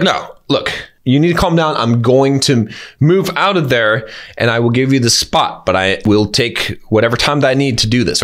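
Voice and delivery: measured, firm reply, standing your ground; assertive but polite. Shown as a demonstration. Coach models answering a driver who yells hurry up, firm and polite. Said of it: "You're acting assertive, you're acting polite".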